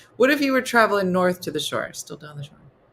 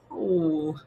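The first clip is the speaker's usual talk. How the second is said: much higher, put-on outraged Jersey voice; mock Jersey indignation; 13 semitones higher than usual. Mocking the beach crowd, outraged Jersey voice. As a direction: play an offended Jersey local.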